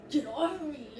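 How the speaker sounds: loud, high shout imitating a struggling mother; mom's retold yell. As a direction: yell it like she's being held back. Retold struggle, mom being restrained.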